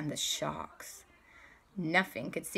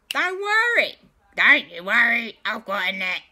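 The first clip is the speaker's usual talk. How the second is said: high, loud confident cartoon boast; Gru reassuring; 4 semitones higher, 7 dB louder than usual. Gru telling the team not to worry, loud and high. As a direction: brag that you've got it covered.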